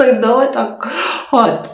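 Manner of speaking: high, slow, drawn-out question; mock-innocent house help. House help asking about the boiled water, mock-innocent. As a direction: stretch out an exaggerated clueless question.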